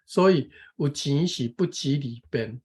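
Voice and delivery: measured, careful reading of a text; reading aloud. Real, not acted. Taking a turn to read the passage, careful reading aloud. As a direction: read it out phrase by phrase.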